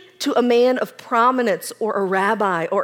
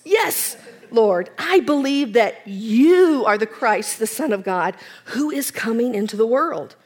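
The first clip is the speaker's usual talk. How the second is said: eager Martha. Acted. Martha's confession.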